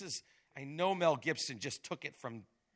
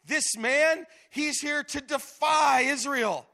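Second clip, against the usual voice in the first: high, slow, sing-song mimicry of the soldiers; mocking parrot; 11 semitones higher, 11 dB louder, slower than usual. Preacher mimics scared Israelites echoing Goliath, high mocking parrot. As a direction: parrot the giant's taunt back, mockingly. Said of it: "He now has the Israelites repeating".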